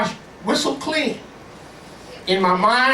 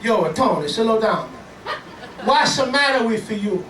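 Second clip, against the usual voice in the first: mock Italian-American family voice; Italian-American scolding. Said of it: "For your Italian family".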